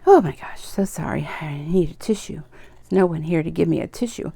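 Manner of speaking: tearful, softening apology; real tearful voice. Real, not acted. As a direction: apologize softly while needing a tissue. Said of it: "I apologize for my crying".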